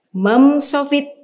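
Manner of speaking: mem sofit said slowly and high; over enunciating. Shown as a demonstration. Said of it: "teacher models letter".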